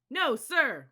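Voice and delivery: high, very loud shout back; yelled reply. A narrator's reading. New cadets answering their leader, loud yell. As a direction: bellow the answer. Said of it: "we yelled back".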